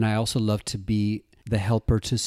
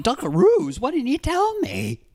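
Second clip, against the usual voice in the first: excited fan; 5 dB louder than usual. Retold or imitated. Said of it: "They're like".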